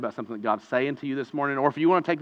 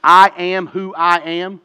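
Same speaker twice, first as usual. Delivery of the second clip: each word drawn out slowly, weighty; slow solemn proclamation; 3 semitones higher, 8 dB louder, slower than usual. Retold or imitated. Preacher quoting God to Moses, slow and solemn. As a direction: announce the divine name slowly. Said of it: "God reveals himself to Moses".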